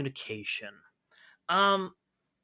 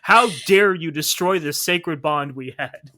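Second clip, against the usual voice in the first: hammed-up betrayed lover, loud and high; mock outrage; 4 semitones higher, 10 dB louder than usual. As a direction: play the wronged boyfriend for laughs. Cohost mock-outraged as the boyfriend.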